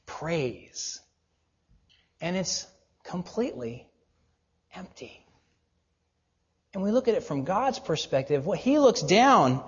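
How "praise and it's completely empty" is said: quiet, spaced out, dying off; hushed verdict. Real, not acted. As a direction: drop to a much softer voice. Hushed verdict on glamour's praise.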